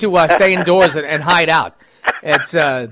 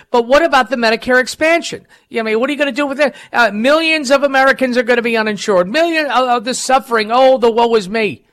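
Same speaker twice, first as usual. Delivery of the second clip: higher, fast, whiny mock of the question; mocking Chris Wallace; 5 semitones higher than usual. Host mocking Chris Wallace's Medicare question, whiny and sarcastic. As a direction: ham up the fake worry and woe. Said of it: "when you hear Chris Wallace say".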